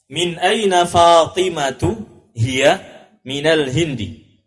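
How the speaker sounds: teacher's modelling voice; slow model answer. Shown as a demonstration. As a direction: say it clearly for pupils to copy.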